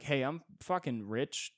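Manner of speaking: snobby rich guy. Retold or imitated. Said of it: "you're like".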